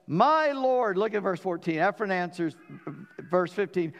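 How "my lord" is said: high, loud "My lord"; grand address. Acted. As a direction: hail him grandly. Ephron addresses Abraham.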